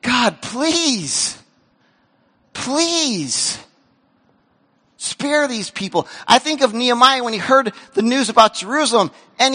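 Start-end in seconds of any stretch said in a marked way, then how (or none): 0.0-6.1 earnest plea. Retold or imitated. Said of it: "but saying".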